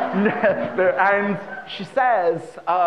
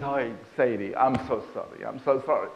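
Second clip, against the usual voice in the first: low, softened apology; mildly acted contrition; apologetic husband; 6 semitones lower, 4 dB quieter, faster than usual. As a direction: plead gently for forgiveness. Husband apologises to crying wife.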